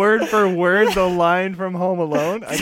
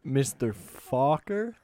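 lightly voiced suspicious father, slow at the end; a hint of a menacing dad grilling the boyfriend; De Niro as the father; 4 dB quieter than usual. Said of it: "we went for a Meet the Fockers, Robert De Niro".

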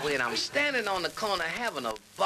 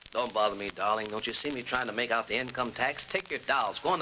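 lower, lightly voiced father; busy father; 5 semitones lower than usual. Father busy with income tax, lightly voiced. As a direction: brush the child off in a low voice. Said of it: "talk with your father".

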